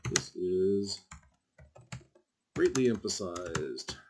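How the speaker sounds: drawn out, with a long pause midway; typing aloud. Shown as a demonstration. Teacher typing an example of strong emphasis, slow and halting. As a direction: speak slowly in time with your typing. Saying words while typing them.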